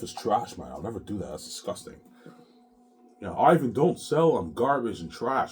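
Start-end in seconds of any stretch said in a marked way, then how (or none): 3.3-5.5 high, loud and slow, a hammed-up imitation of his wife; mock her in a squeaky, drawn-out voice. Husband mocks his wife's plea not to sell, hammed-up high voice. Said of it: "She'll tell me that".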